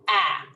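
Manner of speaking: "ah" as a brief, isolated short A; short vowel sound. Shown as a demonstration. Teacher showing the short A sound, "ah" brief and loud. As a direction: say "ah" short, as in cap. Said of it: "makes a short vowel sound".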